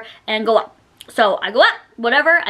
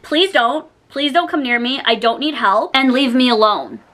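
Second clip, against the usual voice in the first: firm refusal. Retold or imitated. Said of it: "And I said it like that".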